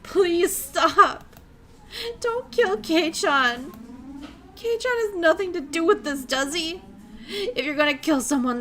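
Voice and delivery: high, loud crying plea; wail, begging for his life; caged girl screaming for her friend's life. Acted. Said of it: "as she wailed".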